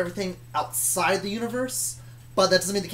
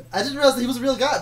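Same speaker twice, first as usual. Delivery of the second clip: excited; 7 semitones higher, 7 dB louder, faster than usual. Real, not acted. Excited recognition continues.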